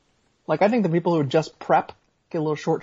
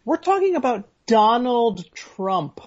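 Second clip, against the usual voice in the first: slow emphasis; 4 semitones higher, slower than usual. Real, not acted. Incredulous emphasis on the name.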